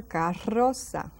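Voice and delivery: carroza, slow, the RR trilled strongly; rolled double R. Shown as a demonstration. Teacher showing students how to roll R: carroza. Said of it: "Rolls those R".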